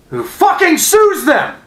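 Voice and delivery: high, slow, loud yell; furious shout. Real, not acted. Fan yelling about the owner suing fans, furious. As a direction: yell it out in fury.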